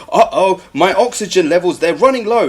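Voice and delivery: hammed-up little uh-oh, no real panic; mock mild concern. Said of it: "you would be screaming in panic".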